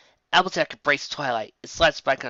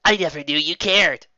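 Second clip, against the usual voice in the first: smirking; 4 semitones higher, 5 dB louder than usual. Acted. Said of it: "she said, smirking".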